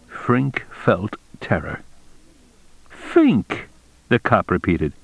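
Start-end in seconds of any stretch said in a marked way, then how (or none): 2.9-3.7 name pitched very high, then falling; accusing cop. A narrator's reading. Cop repeats the suspect's real name.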